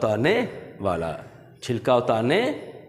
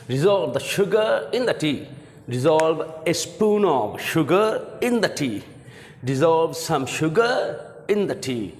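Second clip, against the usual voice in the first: slow teaching read; 5 semitones higher, much slower than usual. Shown as a demonstration.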